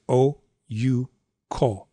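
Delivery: "O, U, ko" as three long, separate syllables; "O, U, ko" scanned rigidly, every syllable long; rigid meter. Shown as a demonstration. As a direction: give O, U, ko three equal long beats. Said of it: "According to the rigid meter".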